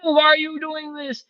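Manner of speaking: high, slow mock panic; squeaky frightened inner voice; panicking brain. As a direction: voice the alarmed brain, hammed-up. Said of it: "Your brain is going".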